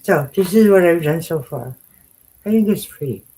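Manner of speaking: talking around a stitch marker held in the mouth; mumbling with a stitch marker between the lips. Real, not acted. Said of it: "It would probably be better if I wasn't talking with the stitch marker in my mouth".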